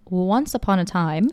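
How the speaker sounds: slow storybook once upon a time; fairy tale opening. Shown as a demonstration. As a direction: start it like a bedtime story. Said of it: "Can you give it to me in story form?".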